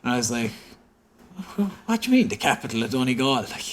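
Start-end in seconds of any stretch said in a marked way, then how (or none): 1.6-3.3 retold bafflement. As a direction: re-enact being thrown by the answer. Retold baffled reply to the surgeon.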